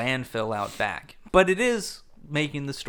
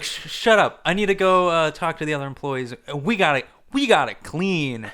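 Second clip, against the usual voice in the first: snappy retort; 4 dB louder than usual. Retold or imitated. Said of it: "he's like".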